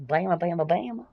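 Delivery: Bama repeated in a playful Southern Alabama twang; teasing Alabama-accent calls of Bama; wonky Alabama accent. Shown as a demonstration. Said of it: "that wonky Alabama".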